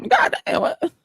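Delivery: breathy, whispered god damn; stunned whisper; hushed mock exclaim. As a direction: drop to an almost voiceless hush. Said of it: "I like".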